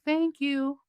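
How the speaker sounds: high, sweet imitated thank-you; sweet squeaky voice. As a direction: mimic a small squeaky spirit voice. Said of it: "I heard it in this squeak, uh, beautiful, sweet voice".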